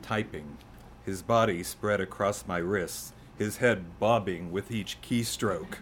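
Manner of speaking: measured phrases with pauses between lines; poem reading. Acted. Poet reading his elegy for a cat, measured poetry reading. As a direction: recite it line by line. Reads own poem aloud.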